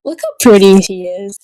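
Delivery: loud, delighted gush. Real, not acted. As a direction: squeal over how pretty he is. Gushing at bride scene.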